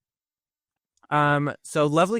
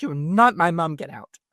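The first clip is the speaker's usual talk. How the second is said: mad yelling; 4 semitones higher, 4 dB louder than usual. Retold or imitated. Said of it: "she's so mad".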